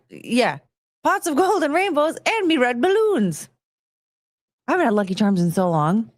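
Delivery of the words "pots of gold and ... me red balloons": high, playful mascot voice; cereal mascot. Acted. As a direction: recite it like a cartoon cereal mascot. Finishing cereal mascot's slogan.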